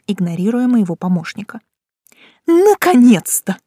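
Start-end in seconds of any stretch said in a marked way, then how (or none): 2.4-3.6 high, slow frantic outburst; relieved and frazzled, loud; furious chef. A narrator's reading. Frantic boss greeting her.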